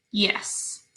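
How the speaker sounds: a soft whispered "Yes"; whispered answer. Shown as a demonstration. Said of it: "Is N a consonant?".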